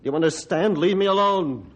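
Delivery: angry. Acted. Doctor threatens to shoot Ranger.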